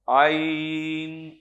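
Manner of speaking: "عین" slow from the throat; throaty ع. Shown as a demonstration. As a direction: hold "عین" back in the throat. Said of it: "اچھی کوشش ہے".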